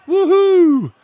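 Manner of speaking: whoop. Real, not acted. Cheering a viewer's message.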